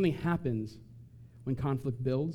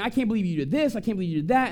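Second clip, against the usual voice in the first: mild mock scream; 5 semitones higher, faster than usual. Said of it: "So you're screaming".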